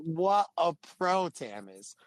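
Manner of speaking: retold marvelling at a pro; admiring. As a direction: stretch out each word in admiration.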